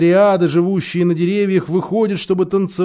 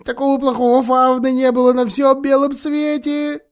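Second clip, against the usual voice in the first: tearful; 8 semitones higher than usual. A narrator's reading. Faun weeping self-reproach.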